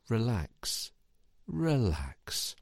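soft, falling, let-go delivery; relaxing release. Shown as a demonstration. Coach easing listeners out of a tensing exercise, soothing. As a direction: let the tension drain out of each word.

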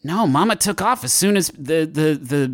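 flustered, slightly high stammer; Jake Cool. Acted. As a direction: stumble over it, a bit high and flustered. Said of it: "Jake Cool, I say".

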